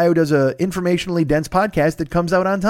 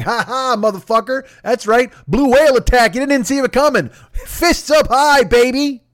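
much higher, louder hammed-up gloating, slowing on fists up high; gloating whale; 7 semitones higher, 3 dB louder than usual. Whale gloating after swallowing the penguin, loud hammed-up crowing. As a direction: crow over the swallowed penguin. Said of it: "And he's like".

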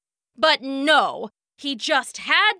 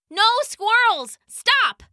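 sharp commands; 9 semitones higher, 3 dB louder, slower than usual. Acted. Owner pulls leash, commands.

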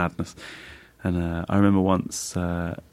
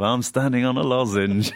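bad impression of a singer; 4 semitones higher than usual. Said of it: "the worst impression of that singer".

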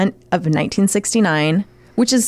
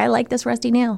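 spider voice; 4 semitones higher, 3 dB quieter than usual. Retold or imitated. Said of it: "that was my impression of a spider".

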